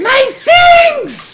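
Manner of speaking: piercing shriek, very high and very loud. Game master voicing what the players hear after the explosion, in a screeching, piercing voice. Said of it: "you just hear this screeching, piercing voice".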